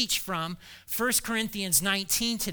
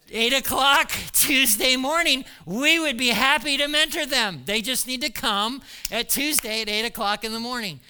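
eager announcement; 4 semitones higher, 4 dB louder than usual. Retold or imitated. Mimics Sharon's eager reply.

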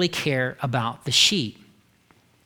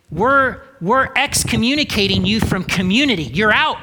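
loud, higher mock expulsion; Pharisees casting out; 3 semitones higher, 4 dB louder than usual. Preacher voicing Pharisees throwing the healed man out, loud and higher. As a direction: bark it like a gatekeeper slamming the door. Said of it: "They were like".

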